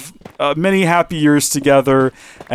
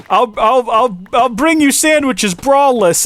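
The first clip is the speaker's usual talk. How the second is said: mock eager nurse; 9 semitones higher, slower than usual. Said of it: "And she's like".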